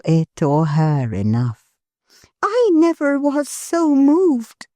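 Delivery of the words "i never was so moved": put-on higher, gentle young wife's voice; Milly, tender. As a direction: lovingly reassure her husband. Milly moved.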